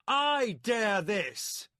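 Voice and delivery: slow, high, loud defiant shout; shouted back. A narrator's reading. Milimber defying the warlord, shouting. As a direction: hurl it back at him. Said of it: "Milimber shouted back".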